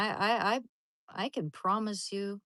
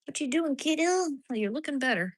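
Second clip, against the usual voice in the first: much higher, louder coo; 8 semitones higher, 5 dB louder than usual. Real, not acted. Woman cooing loudly at her dog.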